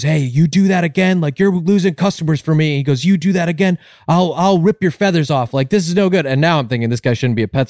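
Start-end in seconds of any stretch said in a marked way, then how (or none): 0.0-2.8 raised-pitch mock telling-off; scolding store owner. Store owner in the parrot's face, mock scolding. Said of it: "gets in the parrot's face". 3.0-6.2 raised-pitch mock telling-off; scolding store owner. Store owner in the parrot's face, mock scolding. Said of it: "gets in the parrot's face".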